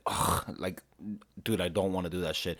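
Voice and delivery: low, quiet mock groaning refusal; very low, hushed protest; grudging reluctance. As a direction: imitate a reluctant teen under the breath. Acted reluctant boy told to kiss.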